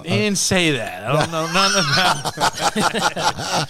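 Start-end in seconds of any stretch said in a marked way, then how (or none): 1.0-3.7 slow laughing denial. Real, not acted. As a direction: laugh it off slowly.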